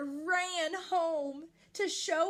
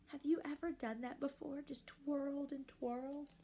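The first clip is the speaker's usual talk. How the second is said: gentle storybook read-aloud; reading to children. A narrator's reading. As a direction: read it like a bedtime picture book for kids. Reading picture book to children.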